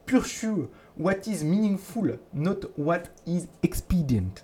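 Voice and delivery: slow, quiet French-accented English; measured French-accented English, drawn out softly. Real, not acted. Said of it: "mon super accent anglais".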